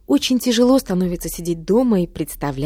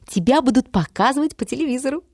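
higher, eager blurt; 7 semitones higher than usual. A narrator's reading. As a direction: burst out with the news. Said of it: "выпалила она".

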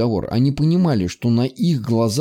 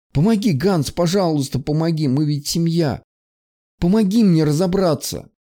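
higher, pleading; begging; 6 semitones higher than usual. Acted. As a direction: beg him, close to tears. Girl begs Hans.

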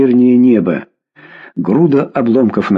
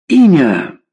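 demanding shout; 4 semitones higher than usual. A narrator's reading. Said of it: "крикнула Клавдия".

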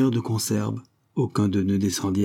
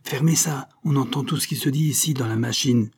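shouting; 4 semitones higher than usual. Acted. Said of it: "lui cria dans l'oreille".

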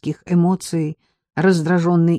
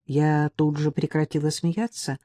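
ordinary delivery

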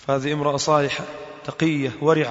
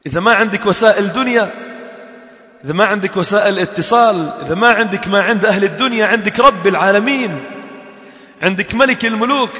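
fervent reply; 5 semitones higher, 4 dB louder than usual. Retold or imitated. Mother's fervent answer.

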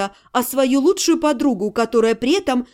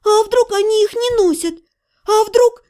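high, anxious outburst; bursting out; 8 semitones higher than usual. Acted. Heroine can't hold back her fear for her family, high outburst. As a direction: blurt it out, pitch jumping. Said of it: "не выдержала я".

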